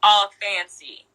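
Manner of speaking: drawn-out, teasing "all fancy"; mock commercial read; sassy ad line. Shown as a demonstration. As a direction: sell the Sprite line with sass. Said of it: "my line was".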